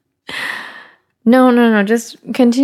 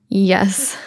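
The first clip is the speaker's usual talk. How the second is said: whispering. Real, not acted. Whispering on phone.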